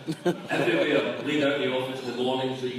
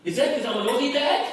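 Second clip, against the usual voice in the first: put-on raised, hopeful boy voice; hopeful kid; 13 semitones higher, 5 dB louder than usual. Son asking father, lightly voiced kid. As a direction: ask Dad like an eager child. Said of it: "I said".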